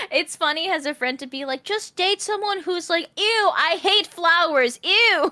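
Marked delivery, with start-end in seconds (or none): 1.6-5.3 grossed out, whiny ew; mock disgust. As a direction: sneer like a picky date. Mocking picky date.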